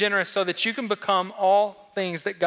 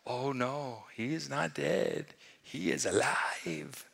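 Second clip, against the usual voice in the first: lightly voiced Rafiki; 3 semitones lower, 7 dB quieter, slower than usual. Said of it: "And Rafiki says".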